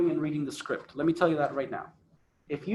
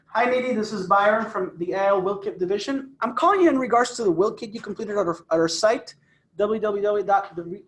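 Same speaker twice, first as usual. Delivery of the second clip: engaging phone tone. Shown as a demonstration. Coach demoing a call to a lead, lively rising tone. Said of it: "And notice my tone".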